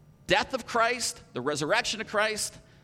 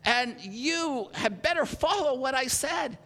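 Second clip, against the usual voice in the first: scolding shout; 4 semitones higher than usual. Acted. Paul scolding the church.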